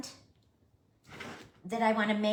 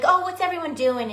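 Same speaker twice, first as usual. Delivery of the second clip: chirpy; 9 semitones higher, 9 dB louder than usual. Retold or imitated. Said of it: "I'm like".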